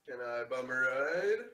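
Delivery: slow, tentative request, rising at the end; mildly embarrassed, hesitant ask; sheepish. Acted. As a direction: ask it sheepishly, drawing the words out. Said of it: "Kind of sheepishly".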